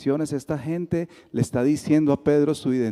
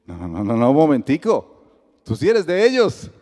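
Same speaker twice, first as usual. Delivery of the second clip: accusing catch; 6 dB louder than usual. Retold or imitated. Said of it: "y que, que sirves".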